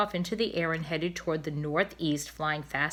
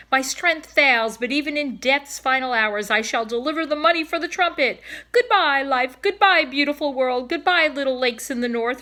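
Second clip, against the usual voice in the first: high, loud, hammed-up farewell; a dying swan bidding goodbye to the world; theatrical dying swan; 6 semitones higher, 6 dB louder than usual. Cob's grand dying farewell.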